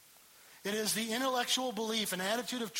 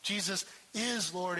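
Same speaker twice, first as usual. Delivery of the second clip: slow, with IS leaned on; stress on is. Shown as a demonstration. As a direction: set the word is apart and press on it. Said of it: "This is that active tense".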